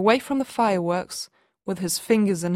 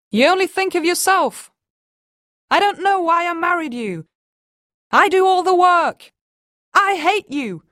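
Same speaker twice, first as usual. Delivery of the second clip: loud and much higher, furious; shouting; 10 semitones higher, 6 dB louder than usual. Acted. Wife screaming at husband over the firework noise, furious. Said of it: "They had to shout louder".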